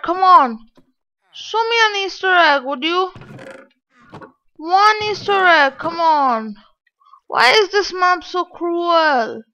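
frustrated gamer begging; pleading. Real, not acted. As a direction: beg the game for one secret. Begging map for easter egg.

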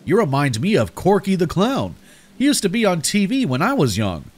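put-on high, wobbly old-man voice; quavering old man. A narrator's reading. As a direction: quaver and swoop like an elderly man reminiscing. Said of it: "said in a quavering voice".

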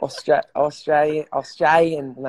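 tentative mock Aussie accent; halting go at Australian vowels; attempted Australian accent. Shown as a demonstration. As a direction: try out an Australian accent, feeling for it. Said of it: "I gotta do an Australian accent".

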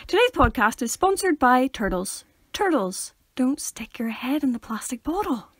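playful announcer with lively pitch swings; mock sponsor read. Podcast host thanking turtles as sponsor, mock ad read. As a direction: announce a silly sponsor with ceremony.

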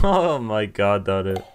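loud laughing, slowed out; laughing disbelief. Real, not acted. Player cracking up at Daru's joke, laughing loudly. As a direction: burst out through laughter.

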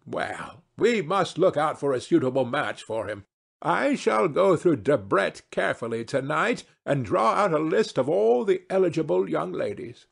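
hint of a grand lady making plans; lightly voiced society hostess. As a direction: lightly play a matchmaking hostess.

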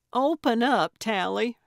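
a loud, high call through the door; yelling. Acted. Gertrude yelling at Tally through the shut door, loud and high. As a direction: bang on the door and yell her name. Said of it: "she yelled".

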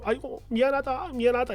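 put-on very soft, meek older-woman murmur; repeated apology. Mother apologises to angry daughter, very soft and meek. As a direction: apologise quietly, backing down. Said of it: "미안하다고 계속 사과도 하셨어요".

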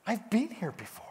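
breathless whisper of recognition; whispered thought. Retold or imitated. Preacher recalls a thought at communion, whispering. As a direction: whisper it like a sudden realization.

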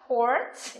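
"port" isolated, with an "or" vowel; model pronunciation. Shown as a demonstration. Teacher shows students how B sounds, modelling "port" with "or". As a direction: pronounce "port" as a careful model word. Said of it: "B phát âm là".

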